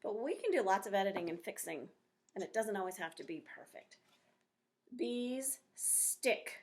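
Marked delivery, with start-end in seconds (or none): 5.0-6.5 reading out the title. Shown as a demonstration. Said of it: "this is my title".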